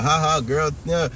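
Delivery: sarcastic cackling praise; mock laughing commenter. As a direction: imitate gossiping women laughing along. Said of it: "laughing out loud".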